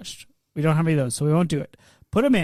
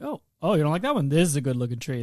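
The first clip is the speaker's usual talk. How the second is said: tree seller voice; 4 semitones lower, 5 dB quieter, faster than usual. Retold or imitated. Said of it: "the tree monger who sells Christmas trees".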